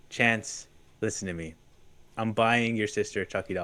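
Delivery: serious mom. Retold or imitated. Retold mom breaking news gently.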